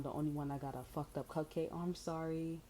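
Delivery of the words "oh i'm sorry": fake sweet apology. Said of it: "Put a smile, have a nice tone".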